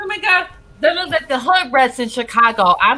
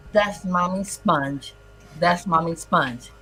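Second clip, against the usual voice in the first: slow mock mother; 4 semitones lower, 3 dB quieter, slower than usual. Mother answers son slowly.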